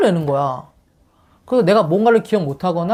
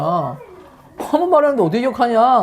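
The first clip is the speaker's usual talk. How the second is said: indignant retort; 5 semitones higher than usual. Retold or imitated. Husband protesting to wife that once is not enough, indignant and higher. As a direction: push the retort up in exasperation. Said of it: "나 너무 화가 났지".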